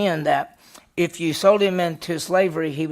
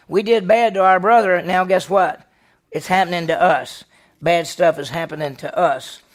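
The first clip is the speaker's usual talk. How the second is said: louder, pressing the brothers' guilt; loud guilty confession; 6 dB louder than usual. Retold or imitated. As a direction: voice the brothers owning up, loudly. Preacher voicing the guilty brothers.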